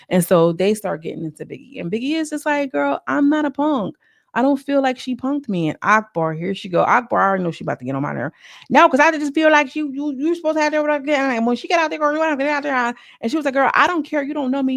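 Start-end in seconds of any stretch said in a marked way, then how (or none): 2.7-5.7 mock defensive. Biggie quoted defending herself. 8.7-12.9 imitating Akbar. Akbar quoted, pushy. 13.5-14.7 mock sassy comeback. Biggie snapping back, retold.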